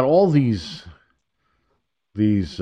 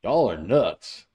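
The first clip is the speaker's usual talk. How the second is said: blunt verdict; slower than usual. Retold or imitated. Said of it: "somebody needs to tell these Democrats".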